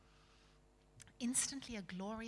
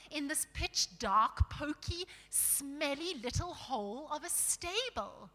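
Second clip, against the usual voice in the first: higher, louder complaint; grumbling dwarf; 5 semitones higher, 5 dB louder than usual. Acted. Dwarf describing the dark stable, disgusted grumble. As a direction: gripe with emphasis on each word.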